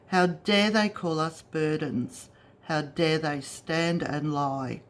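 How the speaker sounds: indignant verse with firmly stressed beats; protest poem reading. Real, not acted. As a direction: read your protest verse aloud, line by line. Reads out own protest poem.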